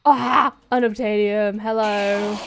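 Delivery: loud, drawn-out greeting to a find; delighted exclamation. Real, not acted. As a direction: call out loudly to the treasure you spotted.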